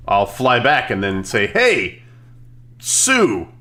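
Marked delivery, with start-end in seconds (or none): 1.5-3.5 higher-pitched hail with falling ends; calling out. Acted. Hero flies back to question Sue, calling out. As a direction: call across to someone for an answer. Calls out to villain after flying back.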